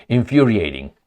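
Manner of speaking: infuriating said through a laugh; a wry chuckle on infuriating. Real, not acted. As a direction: laugh as you repeat infuriating. Repeats the word, then laughs.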